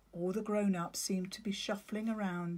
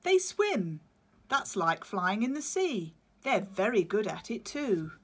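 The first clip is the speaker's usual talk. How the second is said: patient penguin; 3 semitones higher, 5 dB louder than usual. Acted. Claudius explaining.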